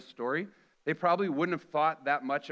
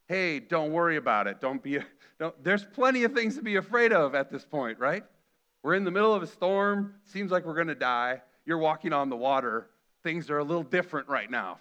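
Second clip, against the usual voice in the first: lightly voiced anxious child, louder; nervous kid talking back; 5 dB louder than usual. A kid answers a parent mid-storm, lightly voiced nervous protest. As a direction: play a worried kid pleading. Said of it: "it sounds a little bit like".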